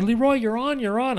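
high, urgent "you're on"; urgent stage cue. Retold or imitated. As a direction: alert yourself in a high-pitched rush. Urgent cue to himself backstage.

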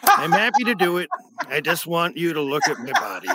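hammed-up closeted old man; Wilford Brimley. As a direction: proposition awkwardly in the impression. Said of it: "I make Wilford Brimley a closeted homosexual".

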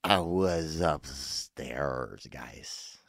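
innocent excuse. Pretend. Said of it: "I'd be like".

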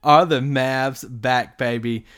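drawn-out, emphatic; slow hype line. Real, not acted. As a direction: savor each word.

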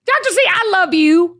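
high, laughing declaration of love. Real, not acted. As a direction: gush through a laugh. Host gushes while laughing.

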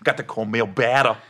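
low rapper voice. Acted. Comic showing co-host the rapper, low put-on voice. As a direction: drop into a Bay Area rapper impression. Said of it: "forty is more like this".

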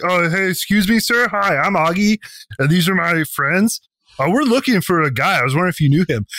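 a lovable idiot asking nicely; polite dumb orc. Retold or imitated. Player voicing the sweet orc greeting the foreman, eager. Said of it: "I walk up and like".

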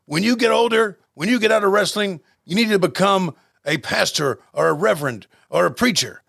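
a half-hearted Ivan Koloff doing a mock promo; a hint of the old Russian Bear cutting a promo; Ivan Koloff impression. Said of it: "you gotta tell me what you think, uh, Ole Ivan's thinking".

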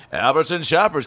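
funny announcer voice. Retold or imitated. Over the store intercom, a hammed-up announcer voice. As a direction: play the store PA guy for laughs. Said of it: "a funny voice".

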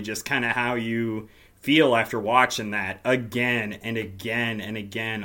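normal talking voice

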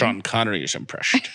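lightly faked Scottish aside, s turned to sh; a hint of mock Scottish; Sean Connery. Co-host butts in on the fact, amateur Scottish. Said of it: "this sounds nothing like Sean Connery".

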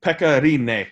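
"Pekka Rinne" with a rolled r, "Rinne" as REE-neh; proper Finnish pronunciation. Shown as a demonstration. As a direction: roll the r in "Rinne" and land on a clear "neh". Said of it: "I need you to say Pekka's last name then".

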